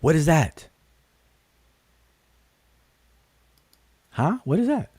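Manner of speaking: high, exaggerated "what are those"; mock the young generation's outcry; imitating young people. Teacher mocking how young people react, pitched high. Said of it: "as the young generation say".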